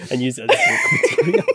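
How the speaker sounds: shouted through a burst of laughter; cracking up while talking fast; laughing. Real, not acted. Joking about an awkward mishap.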